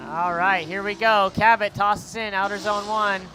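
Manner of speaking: energetic motorsport announcer; live play-by-play. Real, not acted. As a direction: call the action as the cars launch, lifting key words.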